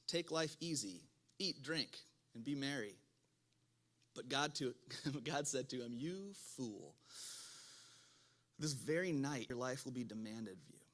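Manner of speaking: measured, emphatic reading of a parable; scripture reading. Acted. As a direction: read it out clearly to a congregation. Reads a parable aloud.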